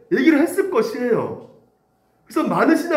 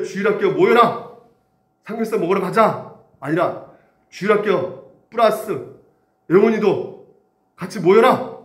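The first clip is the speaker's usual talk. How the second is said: calling out. Retold or imitated. Calling kids, adding a name.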